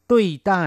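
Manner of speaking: teacher calling out the new word; vocabulary model word. Shown as a demonstration. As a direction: announce ตุ้ยใต้ as the new word, clear and bright. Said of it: "แปลว่าปฏิบัติต่อ".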